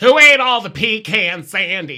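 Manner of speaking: loud, high, slow, swooping, drawn-out cartoon voice. Showing another speaker a voice from American Dad: Roger impression. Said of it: "that's my Roger impression".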